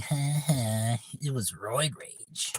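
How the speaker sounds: imitating jeering hecklers, drawn out; mock them with a slow ha-ha jeer; mocking taunt. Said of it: "made fun of wrestling fans".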